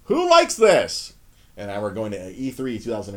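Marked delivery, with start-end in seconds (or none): 0.0-1.1 loud, high, drawn-out disbelief; exasperated retort. Retold or imitated. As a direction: cry it out slowly, appalled. Retold exasperation at praised game.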